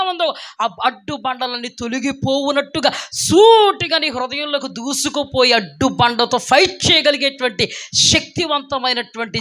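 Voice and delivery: impassioned, flowing sermon delivery; rolling pulpit oratory; preaching. Real, not acted. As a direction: build to a high peak, then settle.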